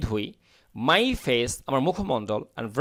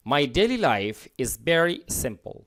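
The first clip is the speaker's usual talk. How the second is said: slow, clear model sentence; slow model reading; much slower than usual. Shown as a demonstration. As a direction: read it out slowly for learners. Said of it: "teacher reads model sentence". (ধীরে ধীরে পড়া বাক্য)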